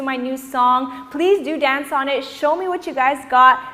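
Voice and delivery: ordinary delivery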